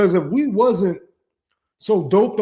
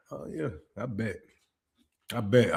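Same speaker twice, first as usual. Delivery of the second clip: sarcastic; 11 semitones lower, 9 dB quieter than usual. Real, not acted. Sarcastic reply to the believer.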